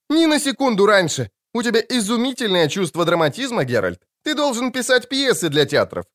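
a flamboyant poet teasing his friend; lightly voiced bard. A narrator's reading. Dandelion praising Geralt's drama. (лёгкая театральность барда, выше)

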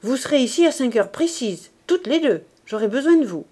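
a father holding his eldest back, pointed and insistent; peculiar insistent tone. Acted. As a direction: stress each instruction meaningfully. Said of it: "dit avec un accent particulier".

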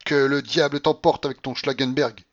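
furious. A narrator's reading. Grandmother rejecting the general's outing, furious. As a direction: curse them off in fury. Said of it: "dit la babouchka avec fureur".

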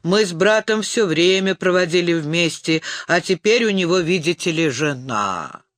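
frat bro. Acted. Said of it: "пожаловался он заплетающимся языком".

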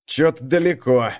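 usual speaking voice

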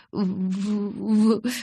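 stuttering through chattering teeth. A narrator's reading. Bella tries to send Jacob away, teeth chattering. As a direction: try to speak but the jaw keeps shaking. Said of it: "слишком сильно стучали зубы".

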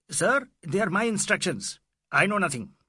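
high, loud flustered official; shrill police inspector. A narrator's reading. Inspector insisting on his instructions to Fielding, shrill. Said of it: "said in shrill tones".

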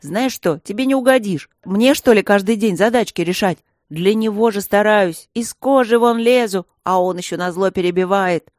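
loud, high angry rant; heated outburst. Acted. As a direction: get worked up and vent. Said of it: "распалился Женька".

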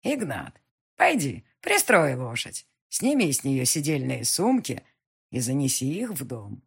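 put-on commanding old witch, slow and firm; an old witch ordering a servant. Witch gives orders to Ignat.

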